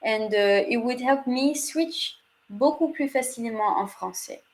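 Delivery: English with a French accent, sliding into French. Shown as a demonstration. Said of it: "speak in a French accent".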